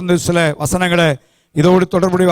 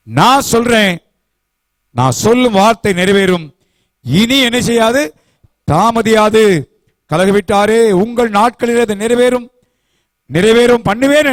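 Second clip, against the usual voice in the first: raised pulpit voice proclaiming God's words; a lightly raised voice of God declaring authority; preaching God's words; 4 semitones higher than usual. Acted. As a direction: thunder the promise from the pulpit.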